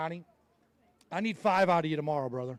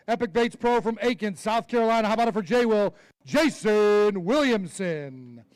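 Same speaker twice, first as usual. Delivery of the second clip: announcer intro. Acted. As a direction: stretch the name out for the crowd. Introduces angler at weigh-in.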